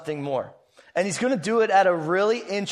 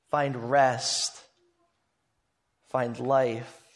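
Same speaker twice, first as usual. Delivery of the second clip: tender appeal; 2 semitones lower than usual. Retold or imitated. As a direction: hold out rest to weary people, gently. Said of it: "And Jesus cries out".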